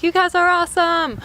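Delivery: high-pitched gushing praise; retold so happy. Traveler praising the janitors for their help, so happy. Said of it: "I was, like, so happy".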